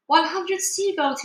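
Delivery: high, slow counted shout. A narrator's reading. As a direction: call the count out proudly. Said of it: "he shouted".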